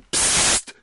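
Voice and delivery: sharp whispered shush; hissed hush. A narrator's reading. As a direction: hiss for instant silence. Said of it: "zischte er".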